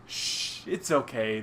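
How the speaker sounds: whispered shh, soft reassurance; calm a frightened baby; soothing shush. Acted. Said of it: "the voice says".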